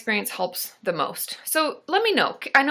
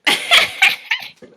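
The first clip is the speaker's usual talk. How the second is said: loud, very high cackling laugh; real cracking-up laugh; 9 dB louder than usual. Real, not acted. Host pictures husband with back scratcher, cracking up.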